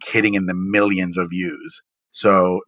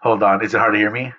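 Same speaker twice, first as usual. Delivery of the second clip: cave echo; faster than usual. Real, not acted. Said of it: "you do sound like you're in a cave".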